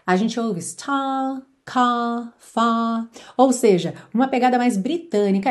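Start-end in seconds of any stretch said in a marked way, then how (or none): 0.6-3.1 star, car, far with no r, open ah; r dropped. Shown as a demonstration. Teacher models a singer's r-less star, car, far. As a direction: say "star" "car" "far" British style, no curled r.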